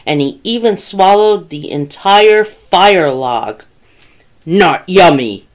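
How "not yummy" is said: mild bellow from a grumpy bear; understated bellow as the bear. A narrator's reading. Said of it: "he bellowed".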